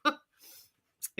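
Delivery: "no" laughing, with no R; "no" giggled out, no R. Shown as a demonstration. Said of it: "I don't say it with an R".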